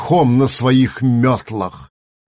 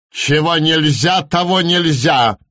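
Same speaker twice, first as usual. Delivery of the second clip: lecturing; 3 semitones higher than usual. Acted. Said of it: "наставительно прокаркал Ворон".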